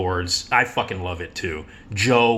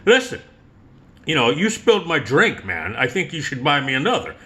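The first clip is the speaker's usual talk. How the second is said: cheeky demand; 4 semitones higher than usual. Retold or imitated. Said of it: "he goes".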